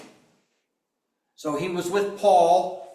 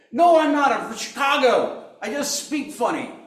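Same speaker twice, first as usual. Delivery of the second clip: much higher, loud, flustered excuse; panicked denial; 11 semitones higher, 7 dB louder than usual. Acted. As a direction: blurt the excuse in a panic, laughing. Peter's panicked comic denial.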